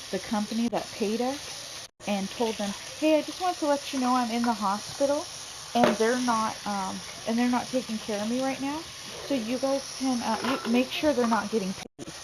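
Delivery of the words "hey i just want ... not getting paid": slightly raised, higher acted phone voice; mildly insistent caller; retold phone complaint. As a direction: imitate someone reporting a problem by phone. Acts out complaint call to company.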